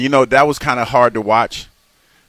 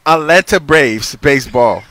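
careful voice command; 4 dB louder, slower than usual. Retold or imitated. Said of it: "maybe I'm saying it wrong".

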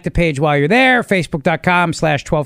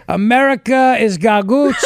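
Italian-American voice; 3 semitones higher than usual. Retold or imitated. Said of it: "saying Italian-American food names in his voice".

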